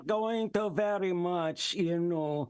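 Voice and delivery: put-on thick Russian accent. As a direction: speak English with a Russian accent. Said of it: "with a Russian accent".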